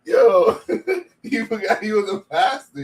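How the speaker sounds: loud, laughing through the words; barely holding in laughter; after laughing hard. Real, not acted. Laughing at a skit.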